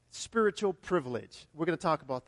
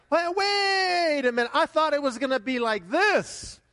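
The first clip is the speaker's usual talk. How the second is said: puzzled believer; 8 semitones higher, 6 dB louder than usual. Retold or imitated. Believer facing trials, mock surprised and louder. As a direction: stop short, a touch bewildered. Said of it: "it's like".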